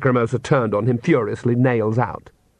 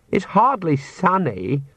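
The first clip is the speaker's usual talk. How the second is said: high, slow sulky grumble; sullen; 7 semitones higher, slower than usual. Acted. Daughter grumbling to father about the sun, sullen. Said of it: "said Lacrimosa sullenly".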